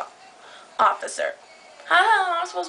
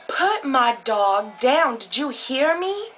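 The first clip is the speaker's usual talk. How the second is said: stern retold demand; slower than usual. Retold angry confrontation with dog's holder.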